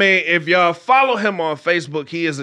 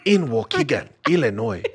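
Black Panther voice; faster than usual. Acted. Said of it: "you sound like an audiobook".

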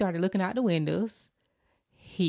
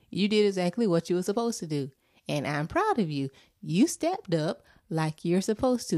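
mother telling her son she's proud; reassuring mom. Retold or imitated. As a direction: comfort him gently. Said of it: "I was like".

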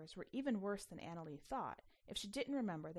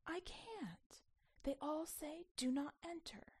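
put-on child voice; 8 semitones higher, 3 dB quieter, slower than usual. A narrator's reading. Child Anna Lee speaking.

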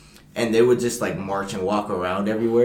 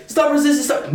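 police robot shout; 8 dB louder than usual. Retold or imitated. Imitating robot police dog.

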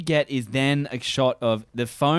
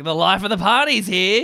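higher mock announcement; announcing; 6 semitones higher, 4 dB louder than usual. Imitating the boy bursting in at the party, mock announcing. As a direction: announce it like a big entrance. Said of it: "he's almost announcing it like".

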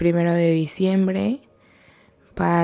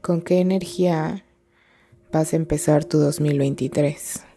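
calm, measured meditation guide with long pauses; guided meditation. Real, not acted. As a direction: guide them gently inward, leaving space between phrases. (meditación guiada, tranquila y pausada)

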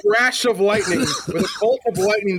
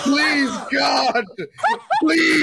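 laughing, raised begging cry; mock pleading; 4 semitones higher, much slower than usual. Pretend victim begs for mercy, laughing mock plea. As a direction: beg in hammed-up distress.

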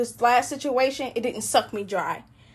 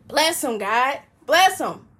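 blessing those who hurt. Retold or imitated. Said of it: "still say".

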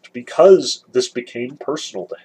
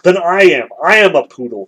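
louder, lightly acted outcry; raised-voice declaration, mildly dramatized; crying out; 2 semitones higher, 6 dB louder than usual. A narrator's reading. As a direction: blurt it out loudly, as a narrator would. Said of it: "cried Mitya".

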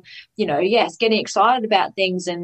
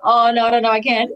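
doubtful worry; 4 semitones higher, 4 dB louder than usual. Retold or imitated. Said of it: "and then going".

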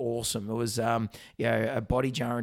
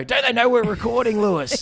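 higher, louder exasperated complaint; host grumbling to co-host about a call; mock indignant; 8 semitones higher, 7 dB louder than usual. Real, not acted. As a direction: play up the outrage at the ringing phone. Phone rings during recording.

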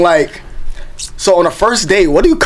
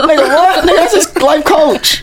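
laughing; 10 semitones higher, slower than usual. Real, not acted. Laughing at the DJ dad.

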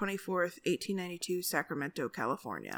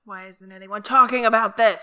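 loud; 10 dB louder than usual. Pretend. Mock outraged call-out.

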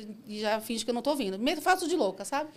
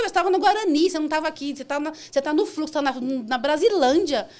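loud, higher retold scolding; exasperated; 5 semitones higher, 7 dB louder than usual. Driver scolds the couple who brought her to Brasilândia, exasperated. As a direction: act out exasperated correction.

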